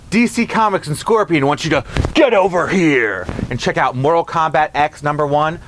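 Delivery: harsh spear-pull battle cry; Scorpion voice. Acted. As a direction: yank the words out like Scorpion. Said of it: "gotta do the pull".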